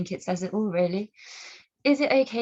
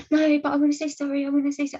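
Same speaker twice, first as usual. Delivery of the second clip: higher, louder put-on voice of the pushy man; imitating insistent man; 8 semitones higher, 4 dB louder, faster than usual. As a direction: mimic his insistent apology. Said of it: "he was all like".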